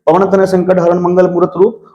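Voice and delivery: verse read at ordinary speed; normal speed reading. Shown as a demonstration. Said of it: "इतना speed से मैंने पढ़ दिया".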